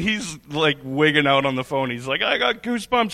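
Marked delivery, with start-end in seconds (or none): 2.2-3.1 1 excited. Retold or imitated. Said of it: "He's freaking out".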